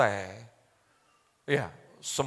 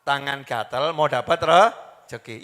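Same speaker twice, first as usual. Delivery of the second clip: positive saying; 2 semitones lower, 5 dB louder, slower than usual. Acted. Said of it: "kalimatnya apa?".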